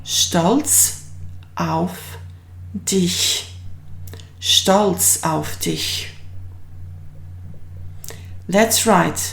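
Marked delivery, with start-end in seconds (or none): 0.0-3.5 stolz, auf, dich split with pauses; word by word. Shown as a demonstration. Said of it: "in German it translates as". 4.4-6.1 stolz auf dich as one slow phrase; joined slowly. Shown as a demonstration. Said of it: "in German it translates as".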